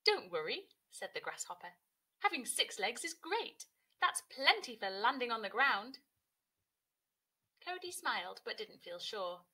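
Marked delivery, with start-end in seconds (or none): 0.0-6.0 louder hearty grasshopper. Acted. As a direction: boom out the reassurance. Grasshopper reassures loudly.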